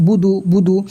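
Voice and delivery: বুদু with both vowels short; no elongation. Shown as a demonstration. Teacher shows learners short vowels, বুদু unstretched. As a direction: say বুদু quickly, neither syllable stretched. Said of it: "দু টান হবে না".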